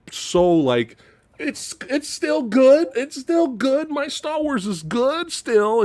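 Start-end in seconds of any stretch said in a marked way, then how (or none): 1.4-5.8 mock denial. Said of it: "I was, like".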